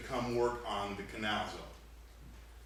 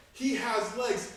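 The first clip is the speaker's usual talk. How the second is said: slow build; 10 semitones higher, 5 dB louder, much slower than usual. Acted. Joke build-up, drawn out.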